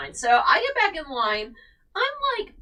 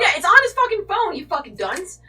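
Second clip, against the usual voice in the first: much higher and louder insult; angry retort; 9 semitones higher, 8 dB louder than usual. Retold or imitated. She yells at the staffer about the phone ticket. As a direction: blow up at the rude woman.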